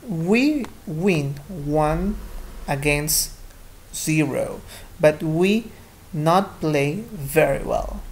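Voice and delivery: slow, chunked teacher reading of a dialogue; deliberate classroom read-aloud with long gaps; pronunciation read-aloud. Shown as a demonstration. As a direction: model it word by word for learners. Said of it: "Solo estoy pronunciando más".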